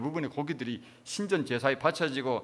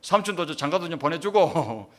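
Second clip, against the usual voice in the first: put-on loud, higher-pitched Gyeongsang-accented plea; Gyeongsang dialect; 3 semitones higher, 5 dB louder than usual. Relative pleading with the dead at ancestral rites, loud Gyeongsang dialect. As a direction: imitate a relative praying in Gyeongsang dialect, loudly. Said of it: "경상도 사투리로 그래 하는 거예요".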